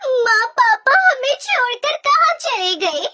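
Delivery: tearful, choked lament for a lost father; weeping as she asks where papa went; crying daughter. Acted. Daughter crying to her mother over father's death, tearful. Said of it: "फूट फूट कर रोने लगते हैं".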